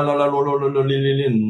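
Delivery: singsong nonsense syllables mocking fake tongues; mock tongues babble. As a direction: babble la la lo li on one steady note. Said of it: "Esa lengua no es la". (balbuceo burlón imitando lenguas falsas)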